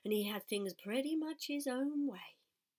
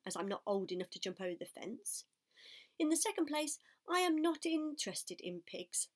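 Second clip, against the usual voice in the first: snooty lamb voice; 2 semitones higher than usual. Acted. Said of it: "said the lamb".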